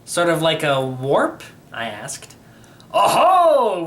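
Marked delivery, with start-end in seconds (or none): 2.9-3.8 knowing oh-ho. A narrator's reading. Knowing exclamation.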